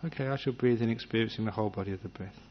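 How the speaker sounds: soft, quiet suggestion to yourself; gentle resolution. Retold or imitated. Meditator setting a gentle intention, softly. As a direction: say it once, softly, then let go. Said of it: "you may even make a resolution".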